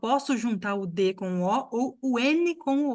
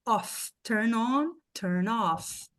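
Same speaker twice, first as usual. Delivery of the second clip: "off" said strong and stressed; teacher contrasts the strong form; much slower than usual. Shown as a demonstration. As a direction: lean on "off" as the tonic word. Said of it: "Off é uma palavra que é forte".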